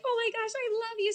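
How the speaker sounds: very high, tearful fangirl imitation; hammed-up weepy fan wail; mock sobbing. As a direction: squeal it as if crying uncontrollably, playing it up. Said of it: "I'm just crying more because it's so embarrassing".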